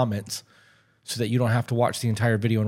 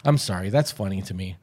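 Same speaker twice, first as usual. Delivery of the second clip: ordinary talk, nothing marked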